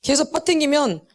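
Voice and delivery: slow, deliberate warning; measured admonition with long pauses; God's warning. Acted. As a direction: spell it out slowly, phrase by phrase. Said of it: "그러는 거예요".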